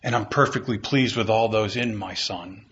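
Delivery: low, gently reassuring voice; understated fatherly tenderness; loving, as God. Acted. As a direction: speak God's approval tenderly and low. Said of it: "And God lovingly says".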